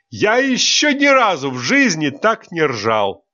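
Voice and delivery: high, giddy with laughter; gasping out words through laughter; laughing hard. Acted. Teacher laughing to tears. (сквозь смех, высоко)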